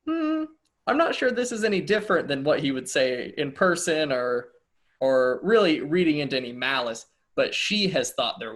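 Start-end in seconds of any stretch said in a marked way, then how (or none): 0.0-7.1 pondering hum, then mild doubt; unconvinced musing; puzzled pondering. Retold or imitated. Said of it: "just kinda went".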